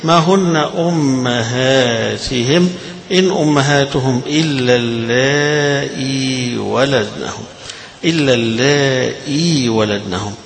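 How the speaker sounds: drawn-out chanted tartil; slow Quran recitation. Shown as a demonstration. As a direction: intone the verse slowly. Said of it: "إما تقرأ بالكسرة فقط".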